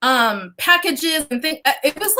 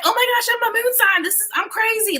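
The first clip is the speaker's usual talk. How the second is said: squeaky high gushing fan impression, higher; mock excited follower; 9 semitones higher than usual. Host mimicking her viewers, higher and gushing. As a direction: play the overexcited viewer who just learned her moon sign. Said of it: "You're all like".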